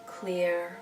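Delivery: slow, soothing meditation voice with long pauses; guided meditation. Real, not acted. Therapist leading listeners through breathing out anxiety, guided meditation. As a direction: guide them gently through the breathing, leaving space after each phrase.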